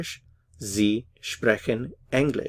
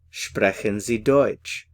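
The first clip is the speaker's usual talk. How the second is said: Sprechen Sie Deutsch, said slowly and carefully; slow model phrase; slower than usual. Shown as a demonstration. Teacher modelling the phrase for learners, slow and careful. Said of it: "So, do you speak German?".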